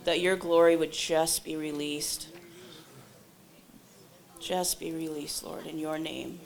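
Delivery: earnest spoken healing prayer, strong opening; congregational prayer. Real, not acted. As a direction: pray aloud for the room, easing toward amen. Continues leading healing prayer.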